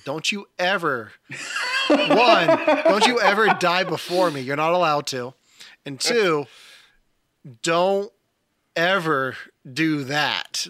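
emphatic retold warning, pausing between demands; stern spousal warning. Wife warning husband not to die first, emphatic. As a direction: lay down the rules as the wife, firmly. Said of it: "my wife flat out told me".

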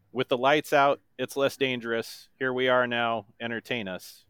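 lyrics read flat and toneless; deadpan the song lyrics; monotone voice. Shown as a demonstration. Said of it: "in my best monotone voice".

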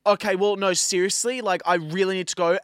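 retold insistence. Retold urgent insisting to get through.

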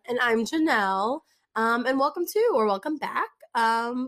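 hoarse, raspy sick voice. Real, not acted. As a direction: talk through a raspy, worn-out throat. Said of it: "apologize ahead of time of Janelle's raspy voice".

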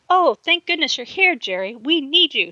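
high, loud urgent call for help. A narrator's reading. Girl calls Jerry over for help, loud relieved call. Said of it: "she called".

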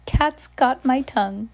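high loud taunting witch; smug witch joke, high and loud. Acted. Witch jokes to crowd.

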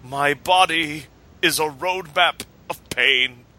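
slow, calm and deadpan; slow calm deadpan quote of a scarred man. Retold or imitated. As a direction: say it very calmly, like a confession. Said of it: "very calmly going".

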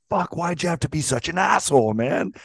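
affectionate teasing. Retold or imitated. Teasing Larry again.

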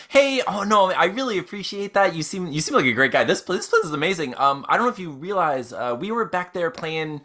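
happy and cheerful. Acted. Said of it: "very happily and cheerfully".

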